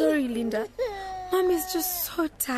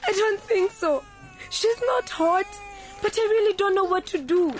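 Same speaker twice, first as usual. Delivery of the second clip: tearful; 3 semitones higher than usual. Acted. Daughter on the phone to her mother, tearful and desperate. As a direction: voice wobbling with tears, pleading. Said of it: "hey, don't you cry".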